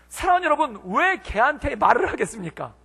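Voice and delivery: usual speaking voice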